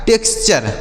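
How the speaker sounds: "टेक्सचर" with an s before ch; s in the middle. Shown as a demonstration. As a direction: say "टेक्सचर" as teks-cher. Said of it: "बीच में यहाँ सा होना चाहिए".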